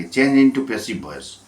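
English prompt read very slowly, word by word; slow reading of the question. Shown as a demonstration. Teacher dictating the question, very slowly. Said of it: "ন নম্বর দেখুন".

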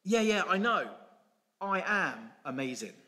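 a light smug donkey voice. Acted. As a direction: shrug off the praise, self-satisfied. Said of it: "that donkey says".

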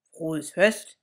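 lightly voiced teddy bear; bear's wish. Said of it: "sagt Ladislaus".

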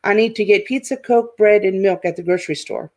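"I need to get pizza, Coke, bread" rushed with no pauses between items; run-together rush. Shown as a demonstration. Teacher showing students a sentence without commas, rushed. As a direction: run the list together with no pauses, fast at the end. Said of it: "here's how it would sound".

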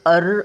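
अर- whispered as an isolated sound; teacher whispering the अर sound. Shown as a demonstration. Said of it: "बोलण्याकडे लक्ष द्या".

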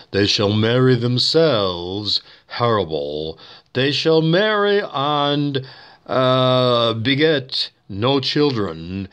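slow, lightly voiced chimp preacher reading; mock sermon reading. Shown as a demonstration. A hint of Cornelius reading scripture slowly. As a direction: drawl the verse like a solemn ape. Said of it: "this is Cornelius from Planet of the Apes".

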